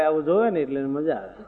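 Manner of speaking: chuckling through the words; laughing. Real, not acted. Preacher laughs at the prankster's glee, amused. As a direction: laugh as you say it. Preacher mocks boy enjoying old man's fall.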